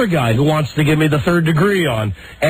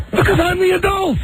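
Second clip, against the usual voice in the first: much higher, pressing each word with exasperation; exasperated insistence. Retold or imitated. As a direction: say it like you can't believe you must explain. Arguing with cruise desk clerk.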